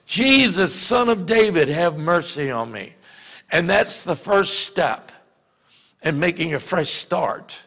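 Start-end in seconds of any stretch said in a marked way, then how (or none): 0.1-2.9 slightly raised cry, retold; half-hearted call to Jesus; mild mock yell. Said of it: "yelling at the top of his lungs".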